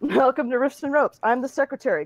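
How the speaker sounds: lightly voiced secretary introduction; secretary greeting.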